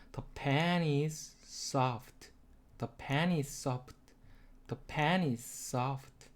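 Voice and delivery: pen and soft stressed, very slow and soft. Shown as a demonstration. Teacher drills the sentence, very slow and soft. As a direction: stretch it out, lean on pen and soft. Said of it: "강세는 펜하고 soft".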